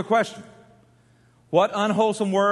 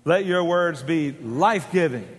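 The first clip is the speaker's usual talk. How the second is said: "Let your words be life-giving." slower and stronger; slow call phrase; 3 semitones lower than usual. Shown as a demonstration. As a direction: lead the echo deliberately. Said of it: "Say it with me now".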